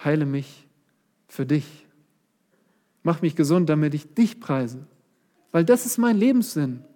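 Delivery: humble plea. Acted. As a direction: offer the request to God, not to yourself. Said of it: "Nein, er sagt".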